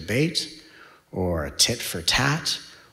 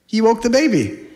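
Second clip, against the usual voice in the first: mock wail; 13 semitones higher, 5 dB louder than usual. Real, not acted. Teasing someone near tears, high and whiny.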